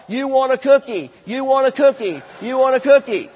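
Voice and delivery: mock yell. Shown as a demonstration. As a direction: yell it back to the child on one knee.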